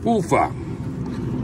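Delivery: breathy hot-food exhale. Real, not acted. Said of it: "it's hot".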